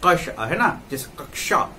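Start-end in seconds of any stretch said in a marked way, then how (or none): 0.1-0.3 कश with the k running into sh; mid-word conjunct demo. Shown as a demonstration. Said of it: "अगर बीच में आएगा". 1.2-1.7 कक्षा split as kak-sha; mid-word conjunct demo. Shown as a demonstration. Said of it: "इसका उच्चारण करेंगे".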